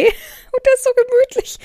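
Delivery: laughing, high and loud. Real, not acted. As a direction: gush through a laugh. Gushing about shark pillow.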